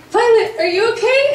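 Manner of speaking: high-pitched, lightly acted check-in; retold concerned check. Friend checking on Violet among crazy relatives, retold high concerned check.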